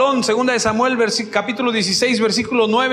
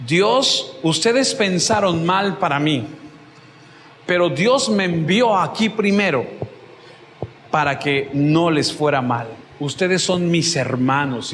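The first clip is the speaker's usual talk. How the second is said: a touch lower, gentle and forgiving; meek and gentle; 5 semitones lower than usual. Retold or imitated. Joseph forgiving the brothers who sold him, in a meek, gentle voice. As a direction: let it come out humble and kind, easing off slowly at the end. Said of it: "qué mansedumbre de hombre que les dice".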